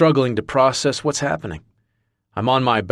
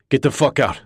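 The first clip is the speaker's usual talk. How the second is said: raised, angry shout; bellow; 4 semitones higher than usual. Acted. Marcus shouting at the intruders, angry. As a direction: drive them out with a shout. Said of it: "I bellow".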